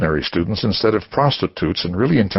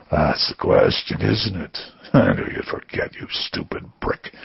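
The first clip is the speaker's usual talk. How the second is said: taunting caller. Acted. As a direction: sneer it under your breath.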